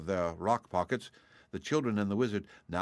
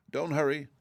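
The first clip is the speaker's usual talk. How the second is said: called out, raised pitch; calling out; 7 semitones higher than usual. A narrator's reading. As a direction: call it across the cave. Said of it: "called one of the dragonettes".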